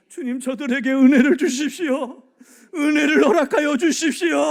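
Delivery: loud, pleading prayer, rising and tearful; fervent prayer. Acted. Pastor praying for his congregation, loud tearful pleading. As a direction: cry out to God with all your heart. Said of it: "엎드려서 그냥 기도하는 거야".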